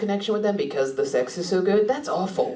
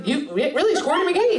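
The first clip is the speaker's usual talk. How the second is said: higher, rising incredulous question; surprised question; 5 semitones higher than usual. Real, not acted. Comic echoes an audience revelation back, surprised question. Repeats audience member's claim in disbelief.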